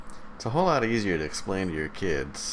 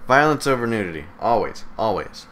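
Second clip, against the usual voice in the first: louder, punching every word; emphatic outburst; 4 semitones higher, 6 dB louder than usual. Real, not acted. Podcast host declaring his verdict on America, emphatic and louder. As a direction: hammer the point home with force. Ranting about America's priorities.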